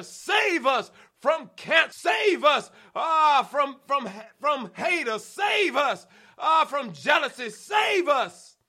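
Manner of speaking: rising litany, building to shouts; preaching prayer. Acted. Preacher praying over the church, building to shouts.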